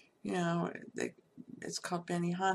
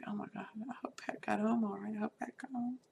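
worried whisper; 2 semitones higher, faster than usual. Retold or imitated. Worrying about friend in hurricane.

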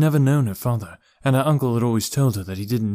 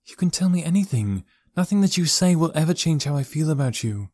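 put-on higher-pitched young niece's voice; reassuring niece; 7 semitones higher than usual. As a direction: reassure him earnestly, pitched up. Niece reassures her uncle.

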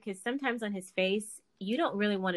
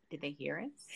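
worried whisper; 6 semitones lower, 10 dB quieter than usual. Retold or imitated. Caught chatting when guests arrive.

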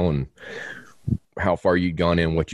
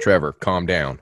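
slow, level mock reprimand; imitating grounded wife. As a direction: play the unruffled partner, taking it slowly. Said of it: "she's the grounded one".

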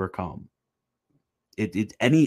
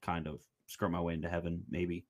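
low, soft, defeated mumbling; imitating a gloomy, doubtful believer; mock gloomy; 4 semitones lower, 4 dB quieter than usual. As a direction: sink into quiet, half-hearted resignation. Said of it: "gloomy attitude".

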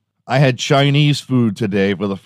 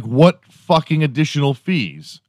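indignant outburst; 6 semitones higher than usual. Retold or imitated. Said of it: "And I'm like".

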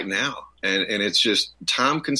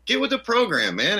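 mocking dismissal; 14 semitones higher than usual. Mocking people who miss the joke.

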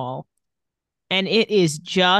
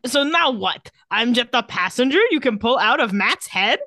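higher-pitched, wobbly mock Eastern European accent; attempted bad-dialect impression; 4 semitones higher than usual. Shown as a demonstration. Podcaster demonstrating actor's line, attempted bad accent impression. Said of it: "do an impression of what that line sounded like".

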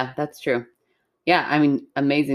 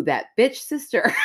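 laughing; 5 semitones higher than usual. Real, not acted.

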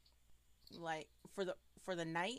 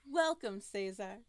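creepy disembodied voice; 6 dB louder than usual. Acted. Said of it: "the creepy voice".

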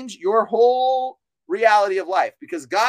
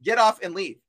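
commanding; 4 dB louder than usual. Shown as a demonstration. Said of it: "Just tell 'em to leave".

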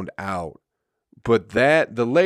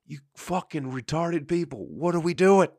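exasperated mock outburst; 7 semitones higher than usual. Comic quoting exasperated audience thought.

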